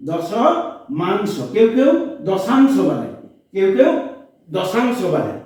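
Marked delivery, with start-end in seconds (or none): 0.1-1.3 দশমাংশ stretched very slowly; slow model word. Shown as a demonstration. Teacher to pupils, modelling দশমাংশ very slowly. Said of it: "drawn out for the class".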